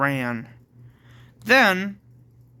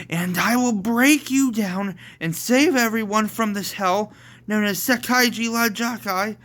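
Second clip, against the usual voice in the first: raised, dramatic vow; heroic declaration; 6 semitones higher than usual. Acted. Amber vows to save everyone, declaiming. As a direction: proclaim it like a rousing vow.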